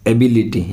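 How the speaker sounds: एबिलिटी, second syllable "bi" stressed; careful demonstration of एबिलिटी with stress on "bi". Shown as a demonstration. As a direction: lean on "bi" when saying एबिलिटी. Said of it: "बी पर stress देंगे".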